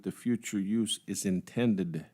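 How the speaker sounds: "intended" set off at the end with a pause after it; stress on INTENDED. Real, not acted. Commissioner questioning a planning document, stress on "intended". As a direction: lean deliberately on the word "intended". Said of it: "I stress the word intended".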